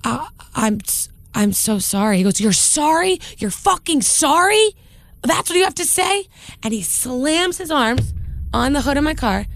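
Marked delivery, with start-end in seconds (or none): 0.0-2.2 halting, stammered apology; lost for words. Retold or imitated. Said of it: "I couldn't find the words to". 2.4-6.2 high, incredulous mock yell; heated, imitated rage. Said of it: "he's so heated".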